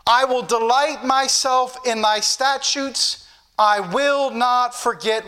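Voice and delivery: slow, measured declamation of a verse; emphatic, drawn-out pulpit reading; scripture reading. Real, not acted. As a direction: read the verse out slowly and deliberately. Reads the verse aloud.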